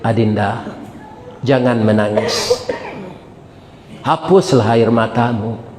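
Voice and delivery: low, soft comforting read; tender letter. Acted. Doctor's letter to the weeping woman, read softly and tenderly. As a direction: read it gently, like consoling.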